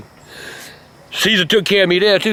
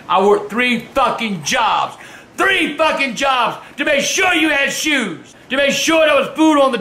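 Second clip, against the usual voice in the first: slow angry shout; slower than usual. Real, not acted. Father ranting about his sacrifices.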